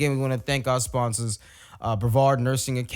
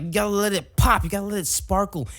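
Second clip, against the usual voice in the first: mock decorator gush; 5 semitones higher than usual. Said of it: "You use shit like".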